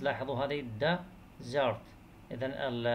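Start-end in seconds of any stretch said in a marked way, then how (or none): 0.8-1.8 "desert" broken into two separate syllables; "desert" in two slow, detached beats; split into syllables. Shown as a demonstration. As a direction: say "desert" with a clear gap between syllables. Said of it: "السيلابلز".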